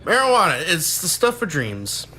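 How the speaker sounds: hammed-up sponsor slogan, slowing down; mock ad read. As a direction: parody a dreamy sponsor tagline.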